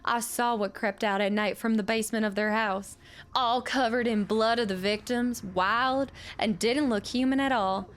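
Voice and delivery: a lightly voiced old widow reading her letter; old widow's letter. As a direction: read it as the bitter old miner's widow.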